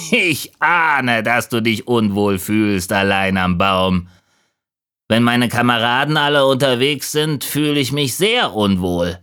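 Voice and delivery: put-on raven voice with a high start; crowing raven. A narrator's reading. Raven addresses the lonely leaf, crowing voice. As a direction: open on a high caw, then settle. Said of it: "Er krähte".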